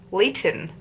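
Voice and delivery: "Layton" said "Lay-uhn" without T; dropped T. Shown as a demonstration. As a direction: swallow the T in "Layton". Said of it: "We don't say the T".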